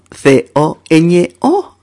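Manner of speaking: each letter of "C O Ñ O" named slowly; spelled out. Shown as a demonstration. Teacher spelling "C O Ñ O" slowly for Spanish students. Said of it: "eh, coño".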